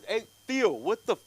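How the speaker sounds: high, loud indignant outburst; protesting yell. Retold or imitated. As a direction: call out in disbelief. Yelling back across the street.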